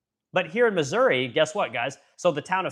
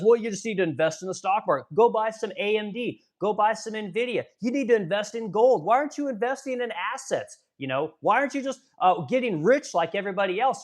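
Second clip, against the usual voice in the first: higher, lightly voiced mock of a smug billionaire president; a host mocking the president's advice to just invest, pitched up and preachy; mock Donald Trump; 5 semitones higher than usual. Host parodies the president telling struggling Americans to invest, mock smug. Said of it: "when he says".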